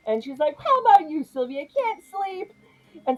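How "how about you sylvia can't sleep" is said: sweetly pointed question. Retold or imitated. Vicky needling Sylvia.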